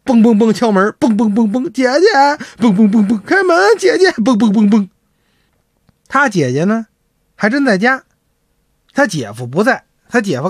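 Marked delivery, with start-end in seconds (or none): 1.7-4.9 mild crying plea. Acted. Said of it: "越委屈越哭".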